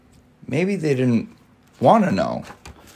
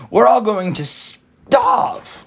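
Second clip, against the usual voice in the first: high, slow, loud despairing wail; 11 semitones higher, 4 dB louder, much slower than usual. A narrator's reading. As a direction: wail it as if doomed. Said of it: "cried the earthworm".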